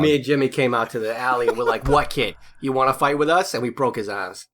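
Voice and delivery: a hint of a bad Boston tough guy accent; lightly put-on Boston accent, bragging about the fight; fake Boston accent. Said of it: "you do the worst Boston accent".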